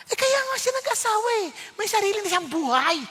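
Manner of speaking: tossing back the obvious; husband answering wife, mock exasperated; mock exasperated retort. Retorting to wife, own quote.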